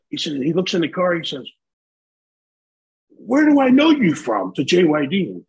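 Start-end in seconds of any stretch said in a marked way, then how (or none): 3.1-4.5 higher, louder, slow squinting question; puzzled dealer. Retold or imitated. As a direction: drag it out as if trying to place a face. Dealer peers into the car.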